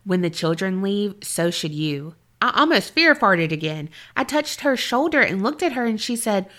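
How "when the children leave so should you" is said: low, understated deadpan, softening at the end. Retold or imitated. Daughter raises her head to warn the investigator, deadpan. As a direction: read the warning out in deadpan. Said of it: "in a deadpan voice says".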